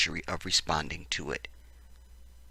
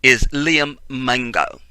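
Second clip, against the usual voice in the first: fake British accent; 3 semitones higher, 5 dB louder than usual. Host reading the news story to listeners, fake British accent. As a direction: put on British, landing hard on the name. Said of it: "fake British accent".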